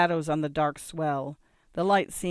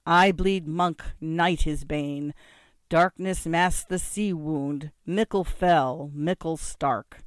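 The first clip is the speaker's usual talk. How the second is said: slow, weighty incantation; measured bardic recitation, each phrase drawn out; recited verse with flourish; slower than usual. A narrator's reading. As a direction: declaim it like a grim war poem. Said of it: "I finished the recitation with a flourish".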